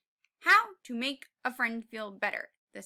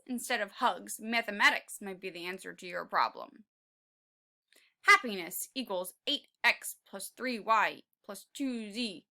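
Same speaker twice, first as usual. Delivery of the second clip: father voice; 4 semitones lower, 4 dB louder than usual. Acted. Father's voice, lower.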